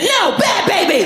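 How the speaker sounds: high, drawn-out mock telling-off; mock scolding. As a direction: scold a baby like a naughty puppy. Mock scolding baby like a dog.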